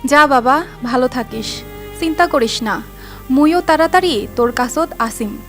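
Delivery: high wailing sob; mother wailing through tears; crying out. Real, not acted. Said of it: "কান্নায় ভেঙে পড়েন".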